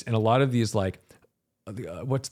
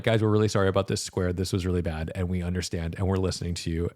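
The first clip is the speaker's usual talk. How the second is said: lower, subdued corporate apology; mock contrite apology; 5 semitones lower, faster than usual. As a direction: play a company humbly owning up, voice dropping. Acting a contrite company apology.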